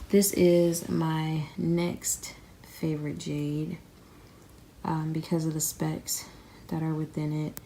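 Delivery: slow, winded, short of breath; out of breath and a bit sick. Real, not acted. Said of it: "Y'all, I am so out of breath".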